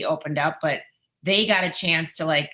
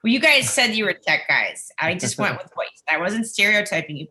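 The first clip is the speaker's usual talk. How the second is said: defensive; 4 semitones higher, 5 dB louder than usual. Retold or imitated. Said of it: "And I was like".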